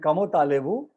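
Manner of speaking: कमो तालेबु said as French kamo talebu, rising; formal French greeting. Shown as a demonstration. Teacher modelling polite French कमो तालेबु for elders. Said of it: "senior के लिए, बड़ों के लिए".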